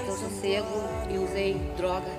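ordinary delivery

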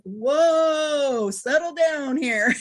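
slow them down, easy now; calming trainer. Retold or imitated. Trainer telling hyper handler to settle their dog down. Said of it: "And I'm like".

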